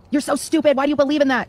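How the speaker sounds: contemptuous demo. Shown as a demonstration. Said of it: "if you say".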